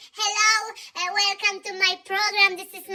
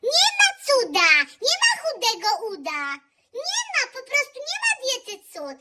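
mock rant; 4 semitones higher than usual. Ranting diet debunk.

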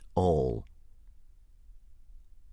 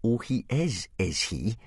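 jeering; 4 semitones higher than usual. Acted. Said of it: "jeered Snotlout".

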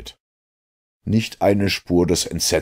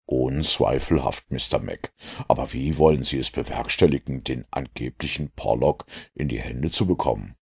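lightly voiced low, measured detective; composed Holmes; 3 semitones lower, 3 dB quieter than usual. Holmes questions the inspector's plan, lightly voiced composure. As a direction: keep the question low and cool. Narrator plays Holmes, sceptical.

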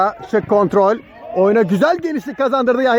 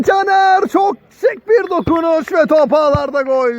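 excited commentator; 6 semitones higher than usual. Real, not acted. Attack building to goal.

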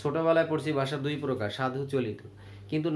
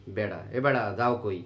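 lower, casual Padma-bank dialect call; Padma regional dialect; 6 semitones lower than usual. Retold or imitated. Teacher demos how Padma-region folk call a boy, in dialect. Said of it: "আমাদের পদ্মার উপরেও বেড়াও বলে".

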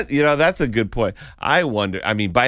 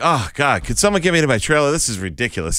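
plain English diva; 6 semitones higher, 5 dB louder than usual. Pretend. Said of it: "She's like".

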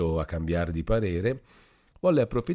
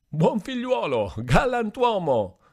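much higher, slow, tipsy and pleased with himself; drunken echo; 14 semitones higher, 5 dB louder than usual. Acted. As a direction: echo the praise like a proud drunk. Drunk Renzo echoing flattery.

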